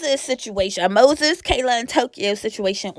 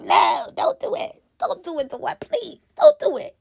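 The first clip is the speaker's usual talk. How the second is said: high-pitched begging no; whiny squeaky don't do it; high pleading; 10 semitones higher, 3 dB quieter than usual. Pretend. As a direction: plead with him to stop. Begging Dawn not to go.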